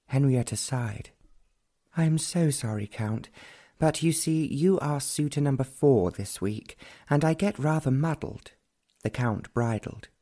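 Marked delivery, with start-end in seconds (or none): 2.0-8.5 put-on a lightly higher, airy young lady; young lady's voice. Henrietta apologising to her suitor, lightly higher young lady.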